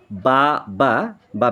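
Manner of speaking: mock baa of a sheep, in the speaker's own voice; sheep bleat. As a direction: bleat like a lamb for the kids. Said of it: "দুটোই বলা যায়".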